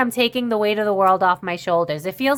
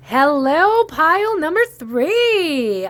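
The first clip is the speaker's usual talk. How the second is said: very slow, pitched-up host voice, three held long; 7 semitones higher than usual. Card reader moving on to pile number three, in a game show host voice. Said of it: "that sounded like a game show host".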